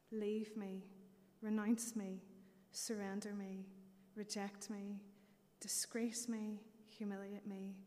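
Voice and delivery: swelling, rhythmic poem recital; dramatic reading. Acted. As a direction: build each list word with passion. Reads devotional poem to congregation.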